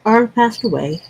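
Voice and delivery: holding back tears on the phone; crying on the phone. Real, not acted. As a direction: voice breaking with tears. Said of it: "are you crying right now?".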